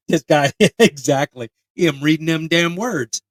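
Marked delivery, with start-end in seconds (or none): 1.8-3.2 hillbilly. Acted. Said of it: "like an episode of Moonshiners".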